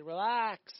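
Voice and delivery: firm reassuring relax; a touch of divine calm, said plainly; God telling him to relax. Retold or imitated. God telling the psalmist to relax, in a firm reassuring tone. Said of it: "and God said".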